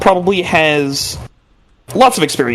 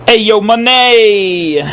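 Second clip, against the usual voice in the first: playful call; 8 semitones higher, 5 dB louder, much slower than usual. Acted. Joking on the name.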